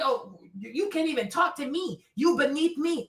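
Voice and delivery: the snob she refuses to be; snobby put-down. Pretend. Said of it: "I'm not trying to make".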